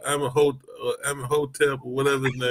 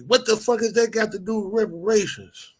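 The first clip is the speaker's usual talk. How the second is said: higher mock Savio outburst; lightly hammed-up indignant friend; imitating Savio; 9 semitones higher than usual. Quoting Savio's off-topic rant, mock indignation. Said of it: "he's like".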